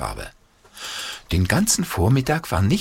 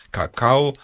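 whispering; 5 semitones higher, 3 dB louder than usual. A narrator's reading. Scornful aside on cocoa.

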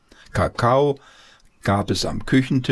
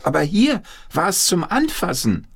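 building excitement; 9 semitones higher than usual. A narrator's reading. Narration building excitement about zebra.

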